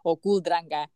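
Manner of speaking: Herero-flavoured pronunciation of cool drink; Herero twang. Shown as a demonstration. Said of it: "put some twang into it".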